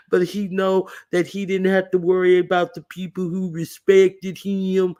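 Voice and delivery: hammed-up imitation of Malik explaining the Godfather; mocking Malik. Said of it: "Like, he's".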